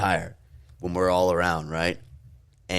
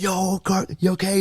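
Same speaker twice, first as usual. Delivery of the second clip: higher mock concerned check-in; worried call; 12 semitones higher than usual. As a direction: ask it like you're scared he's hurt. Teammates checking the hurt kid.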